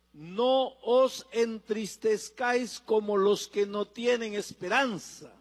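slow, measured scripture quote; slow solemn quotation. Acted. Preacher quoting Paul to the congregation, slow and deliberate. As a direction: spell out the verse slowly, word by word.

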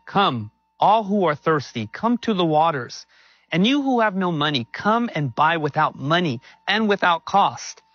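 measured, lifted public Bible reading; scripture reading. Acted. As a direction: read it out as an earnest invitation. Reads a Bible passage aloud.

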